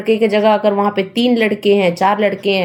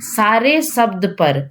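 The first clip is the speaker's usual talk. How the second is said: slowly stressing सारे शब्द पर, leaning on सारे; slow emphasis; slower than usual. Shown as a demonstration. Teacher warning students, slow and weighty. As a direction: lay out सारे शब्द पर word by word. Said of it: "सारे शब्द पर आप ध्यान रखिएगा".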